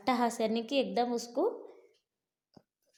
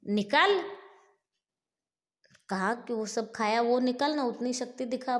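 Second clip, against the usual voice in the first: furious demand; 3 semitones higher, 5 dB louder than usual. Acted. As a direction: demand it back with a roar. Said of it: "बोल के फिर से उसको मारता है". (भीम का गरजता, ऊँचा हुक्म)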